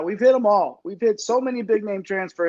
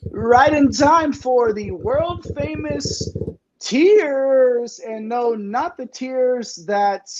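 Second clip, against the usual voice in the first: show announcer; 3 semitones higher than usual. Acted. Host unveiling the world famous tiers to the audience, announcer style. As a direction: hype it up, stretching the big words.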